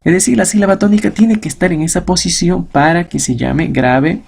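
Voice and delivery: normal talking voice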